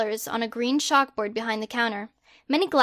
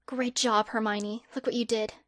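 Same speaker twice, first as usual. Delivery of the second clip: much softer, hushed self-praise; whisper to herself; 7 dB quieter than usual. Acted. Hermione alone praising herself, softly hushed. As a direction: murmur it just for yourself. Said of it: "she whispered to herself".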